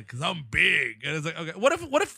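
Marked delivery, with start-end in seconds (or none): 0.0-1.0 The Rock. Acted. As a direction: draw it out like a boastful action hero. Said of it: "of course, The Rock's like".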